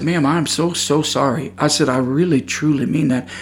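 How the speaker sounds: soft, sincere apology; calm, quiet. Retold or imitated. Apologizing to the shaken woman, calm and quiet. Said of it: "in a very calm, quiet manner".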